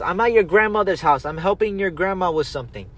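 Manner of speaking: lightly voiced mom on the phone; mom without the laugh. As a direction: imitate mom answering, no laughing this time. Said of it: "she didn't laugh, but she goes".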